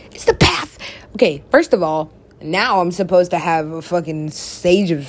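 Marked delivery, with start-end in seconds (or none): 0.1-0.8 excited exclaim. Acted. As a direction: cry out "It's the path!" like a revelation. Whispers then shouts same phrase.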